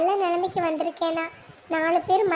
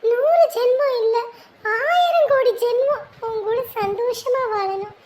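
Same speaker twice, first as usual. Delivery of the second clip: emotional vow; 5 semitones higher, 3 dB louder than usual. Acted. Wife's emotional vow to husband.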